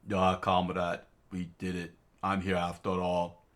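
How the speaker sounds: put-on light Russian accent, concerned. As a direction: check on a comrade in Russian accent. Tatiana, Russian voice.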